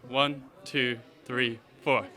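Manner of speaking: calling out counts. Shown as a demonstration. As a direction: count the steps out for the room. Instructor calls the counts aloud.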